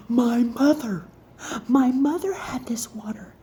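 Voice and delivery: mock panicked realization; retold panic. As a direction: act out a sudden worried realization. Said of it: "I'm panicking".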